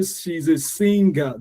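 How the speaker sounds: "singer" as SING-GAH, both halves drawn out; overemphasized final syllable. Shown as a demonstration. Teacher showing wrong stress, "singer" with both syllables heavy. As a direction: give "ga" in "singer" full weight. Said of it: "I'm not stressing the sing".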